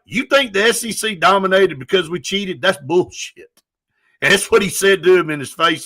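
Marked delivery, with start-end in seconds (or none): 0.0-3.6 mock angry Saban. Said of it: "he was like".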